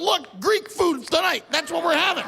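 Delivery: a hungry shark eyeing dinner; sharks talking. Retold or imitated. Sharks talking about him.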